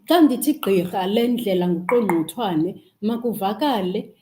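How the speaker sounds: Xhosa with crisp tongue clicks in gqirha and nguqongqothwane; proud Xhosa with clear clicks in gqirha and nguqongqothwane. Shown as a demonstration. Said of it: "in my tongue that clicks".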